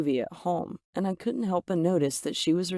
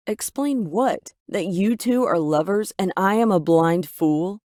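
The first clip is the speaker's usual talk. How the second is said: louder, slow angry outburst at mom; angry shout; 2 semitones higher, 5 dB louder than usual. Acted. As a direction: shout it, accusing her. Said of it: "I shouted angrily".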